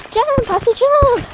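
loud, high call to the dog. Real, not acted. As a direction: urge her on, shouting. Calling the dog to jump.

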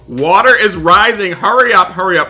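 high, loud alarmed cries to hurry; frantic shouting to the son; panicked yelling. Acted. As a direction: yell in panic as the flood rises. Water rising, urging son to hurry.

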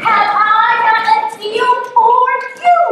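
high, loud hawker's offer at normal pace; salesman pitch. Acted. Yo offers the fisherman a deal, brisk salesman pitch. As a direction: pitch it like a market seller.

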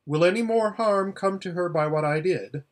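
put-on anxious girl. Aravis asks lion about the slave, anxious.

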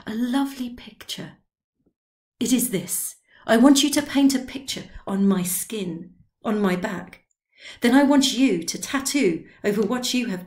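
lightly voiced excited old man; urging his odd idea on the boy; hint of tipsy insistence; eager old drunk painter. Drioli asks for tattoo.

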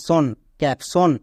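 "সন, ক্যাপশন" slowed down, ending "tion" as "shun"; slow pronunciation demo. Shown as a demonstration. Teacher demonstrates the ending to the class, slow and careful. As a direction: spell it out by ear: "ক্যাপশন". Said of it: "তখন এর উচ্চারণ হবে সন".

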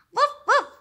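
high playful woof; dog bark. Acted. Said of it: "he said".

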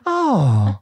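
drawn Edinburgh "oh"; Edinburgh accent. Shown as a demonstration. Host demonstrating Edinburgh sympathy, in accent. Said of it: "That's from, um, Edinburgh".

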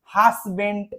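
HUSBAND as "has-bent", ending on T; slow wrong husband with S and a hard T; common mispronunciation. Shown as a demonstration. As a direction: demonstrate the mistaken "hassbent". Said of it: "এরকম ভাবে বলে".

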